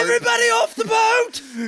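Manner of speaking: high hammed-up shout. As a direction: yell the order to abandon ship. Mock shipwreck shouting.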